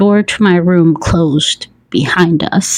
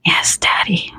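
soft, whispered assent; breathed; 5 dB quieter than usual. A narrator's reading. Narrator answers her partner as tears prick, breathed. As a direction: breathe the answer out almost voicelessly. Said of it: "I breathe".

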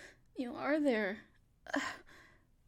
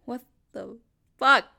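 startled shout; 3 semitones lower, 9 dB louder than usual. Acted. Startled by being grabbed.

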